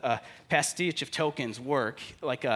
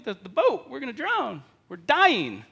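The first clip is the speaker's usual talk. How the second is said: high, loud panicked cries building to a yell; frantic, shouting over the storm to wake him; panicked disciples; 10 semitones higher, 9 dB louder, slower than usual. Retold or imitated. Disciples yelling at sleeping Jesus in the storm, panicked. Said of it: "It's like".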